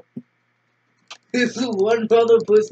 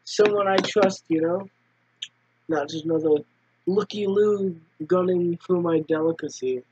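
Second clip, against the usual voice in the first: stoner voice; 4 semitones lower than usual. Acted. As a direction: talk like a chill stoner. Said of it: "You sound like a stoner".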